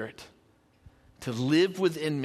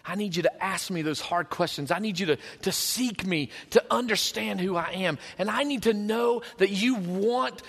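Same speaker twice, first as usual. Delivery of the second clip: pleading God. Acted. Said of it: "He is begging you".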